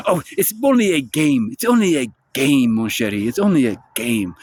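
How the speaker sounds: imitated French husband brushing it off; lightly mock a Frenchman pleading with his wife; Merovingian. French husband excusing himself to his jealous wife, mock pleading. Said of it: "the French asshole".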